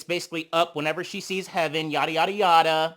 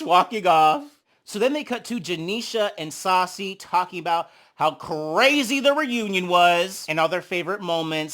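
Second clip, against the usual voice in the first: ordinary talk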